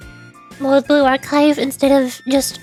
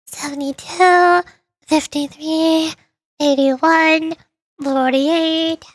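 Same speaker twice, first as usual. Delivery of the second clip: teacher; 3 semitones higher, much slower than usual. Acted. Teacher grading tests, droning out scores. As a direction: read out grades slowly, each number stretched.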